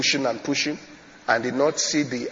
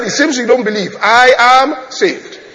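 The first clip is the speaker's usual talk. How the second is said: defiant insistence; 7 semitones higher, 7 dB louder than usual. Retold or imitated. Man answers the doubting pastor, defiant insistence. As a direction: stretch out "I am saved" with force. Man's final retort.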